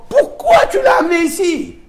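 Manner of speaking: high, loud pleading cry; pleading outcry. Acted. The teacher asks God why he brought the soul here, high pleading cry.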